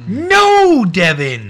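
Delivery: high shout of protest; loud outcry. Real, not acted. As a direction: yell his name in protest. Outburst at friend.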